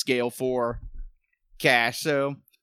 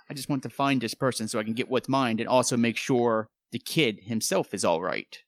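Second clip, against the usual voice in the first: calm voice; 3 semitones lower than usual. Acted. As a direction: soothe a frightened shopkeeper. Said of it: "I try to speak in my calmest voice".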